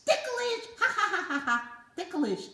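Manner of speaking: very high giggling laugh; giggly. Acted. Puppet giggling at being tickled.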